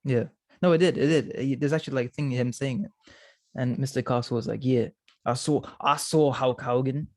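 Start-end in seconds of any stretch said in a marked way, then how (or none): 4.6-7.1 put-on half-hearted Aussie accent for a quoted old-timer. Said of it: "Your Aussie accent was so much better".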